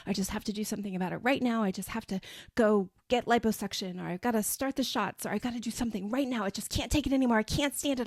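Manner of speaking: fast, rising frantic complaining; mock overwhelmed rant. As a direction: spill it out like you can't take it anymore. Acted overwhelmed bad body day.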